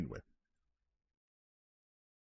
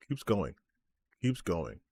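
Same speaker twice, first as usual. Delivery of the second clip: softer with each repeat, trailing away; fading mutter; 4 semitones lower, 7 dB quieter than usual. Real, not acted. Streamer to chat, fading softer in disbelief. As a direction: let it die out in disbelief. Trailing off about the endless comment.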